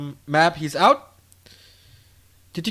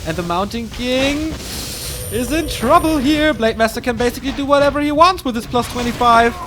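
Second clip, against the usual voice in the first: louder excited game commentary; play-by-play; 4 semitones higher, 5 dB louder than usual. Acted. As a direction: call the fight live, building energy. Live play-by-play casting.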